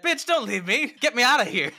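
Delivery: high, loud frantic victim; hammed-up desperate scream; mock screaming. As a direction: shriek it as a girl begging for rescue. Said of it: "the girl screaming".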